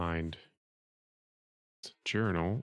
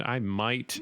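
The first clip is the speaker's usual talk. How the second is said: "might" leaned on for emphasis; stress on might; 4 semitones higher than usual. Real, not acted. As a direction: put the weight on "might". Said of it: "emphasis on the might".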